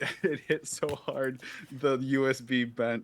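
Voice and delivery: thin voice no bass. Real, not acted. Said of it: "You're no longer thick of voice".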